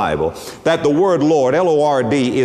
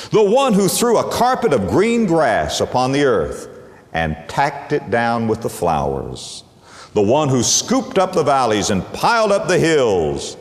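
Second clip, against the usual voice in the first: quoted poetic preaching; 3 semitones lower than usual. Retold or imitated. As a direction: recite it like a grand poem. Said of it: "what he said about Jehovah".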